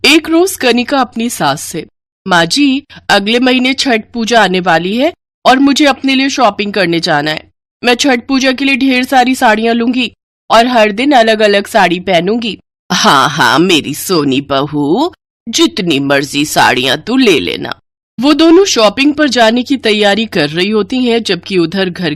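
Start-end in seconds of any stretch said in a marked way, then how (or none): 2.3-12.6 higher, eager voice of a pampered daughter-in-law; spoilt young bride. Acted. Spoilt bride tells mother-in-law about her shopping, eager and high. 12.9-17.8 doting mother-in-law. Acted. Mother-in-law indulges favourite.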